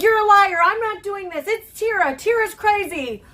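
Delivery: high, loud, panicked protest as Olivia; frantic denial. Retold or imitated. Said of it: "She was like".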